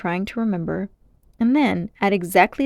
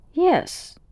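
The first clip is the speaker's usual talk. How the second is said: slow, higher and puzzled; slow puzzled reply, pitched up; 9 semitones higher, 3 dB louder, slower than usual. A narrator's reading. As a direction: wonder aloud, unsure of the memory. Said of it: "with a puzzled air".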